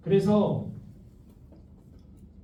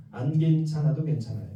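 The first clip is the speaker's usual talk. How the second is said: soft, lower comforting line; a model phrase offered gently; gentle reassurance; 5 semitones lower, 4 dB quieter than usual. Shown as a demonstration. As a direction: say it softly to reassure. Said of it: "따라해보세요".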